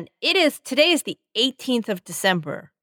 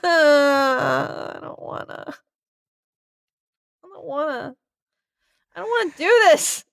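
put-on scared child; 3 semitones higher than usual. Scared kid refusing puppet.

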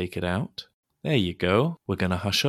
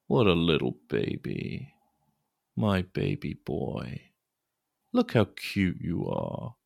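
cooing; 3 semitones lower than usual. Acted. Cooing over baby.

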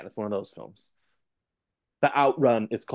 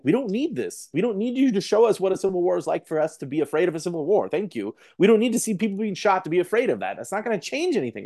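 raised, fed-up rant at filmmakers; exasperated rant; 6 semitones higher than usual. Retold or imitated. Ranting back at preachy filmmakers, exasperated. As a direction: huff it out like you're sick of being lectured. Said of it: "I'm like".

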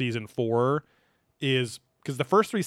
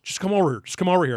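urgent call; 6 semitones higher, 5 dB louder, faster than usual. Retold or imitated. Zach calling Nick urgently.

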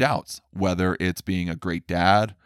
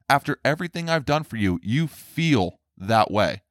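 mock wounded parent; 5 semitones higher than usual. Parent guilt-tripping an ungrateful child, mock hurt. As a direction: drag out "you feel that way" like a hurt parent.

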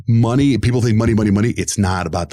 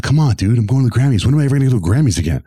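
pleading; 5 semitones higher, faster than usual. Retold or imitated. Begging boss to go to Grammys.

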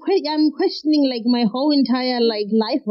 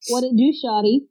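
playful attempt at a Southern American accent. Guest says her one American phrase, mock down-south accent. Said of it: "That's down south, right?".

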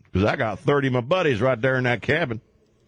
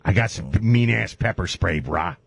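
Dog the Bounty Hunter impression; 4 semitones lower than usual. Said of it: "This is how he talks".

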